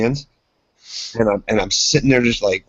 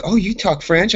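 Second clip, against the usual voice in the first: high-pitched mock-impressed girls; 9 semitones higher, slower than usual. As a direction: imitate girls falling for the French. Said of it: "the chicks will be like".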